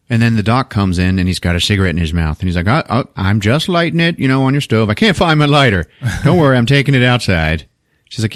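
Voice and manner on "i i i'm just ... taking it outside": higher, stammering excuse; flustered guest. Retold or imitated. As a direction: fumble the excuse nervously. Flustered doctor excuses himself.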